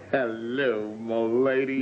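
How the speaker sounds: high flirty greeting. Acted.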